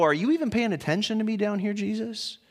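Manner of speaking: a touch of bitter complaint, fast; mildly whiny reproach; complaining, bitter. Retold or imitated. Believer griping at Jesus, faintly bitter and fast. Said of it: "a complaining, bitter kind of way".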